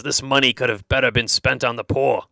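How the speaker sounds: grumbling Judas in a put-on accent. Judas objecting to Mary's costly ointment, grumbling in a put-on accent. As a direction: grumble it in an affected character accent. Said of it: "why I give him that accent".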